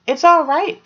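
high, loud carefree shout; shouted back. A narrator's reading. Fox answering his mother from tree, high loud shout. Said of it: "Fox shouted back".

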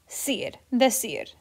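"cir" slowly alone, then "decir" stressed on "cir". Shown as a demonstration. Teacher isolating the emphasized syllable, slow stress on "cir" in "decir". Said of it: "that syllable".

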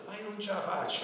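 high, loud wailing cry; crying knight. A narrator's reading. Knight cries to the dragon that he cannot kill it, sobbing. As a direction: sob it out, unable to strike. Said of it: "rispondette il cavaliere piangendo".

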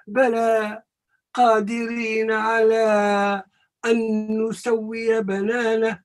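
measured, melodic recitation of the verse; Quran recitation. Shown as a demonstration. Teacher reciting the verse for his class, chanted. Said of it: "teacher recites the verse again".

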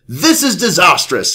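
mock-dramatic British exclamation; British shout. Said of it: "he shouted".

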